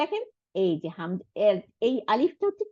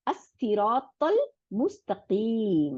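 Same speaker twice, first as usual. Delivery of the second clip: very slow, drawn-out tajweed chant; Quran recitation; much slower than usual. Shown as a demonstration. Teacher recites the verse ending slowly for students. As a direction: recite it word by word and hold each vowel. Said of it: "তাহলে".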